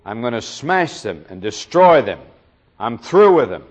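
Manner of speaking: exasperated, building to a loud final threat; fed-up God, wrong reading. Shown as a demonstration. Preacher demonstrating the wrong reading of God: fed-up, rising to a loud threat. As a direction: act out God throwing up his hands in disgust. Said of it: "if you read that as though what God is really saying is".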